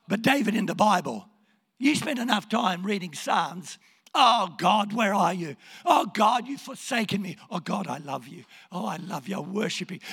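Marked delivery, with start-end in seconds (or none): 4.1-7.4 anguished plea. Acted. David questioning God in the Psalms, anguished plea. 7.5-10.0 adoring worship. Acted. David turning from doubt to praise, adoring worship.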